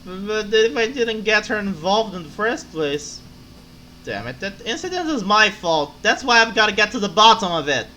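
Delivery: put-on drunk voice. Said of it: "to make the drunk voice".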